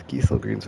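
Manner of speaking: Gysahl as GEE-sul before Greens; long EE and plain S in Gysahl; first speaker's pronunciation. Retold or imitated. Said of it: "the first person said Gysahl".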